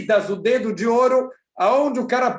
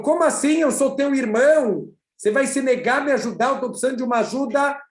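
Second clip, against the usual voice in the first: indignant pleading; 3 semitones higher, faster than usual. Acted. Brother begs rich brother for help.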